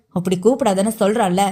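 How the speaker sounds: lightly voiced heated man, reprimanding; mild rebuke from an irritated man; scolding. Man to his teasing girlfriend over a nickname, mildly scolding. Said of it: "அதட்டினான்".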